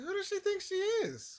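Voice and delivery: very high-pitched mock outrage; retold incredulous indignation; upset indignation. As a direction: act out an affronted, squawked question. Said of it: "I was so upset".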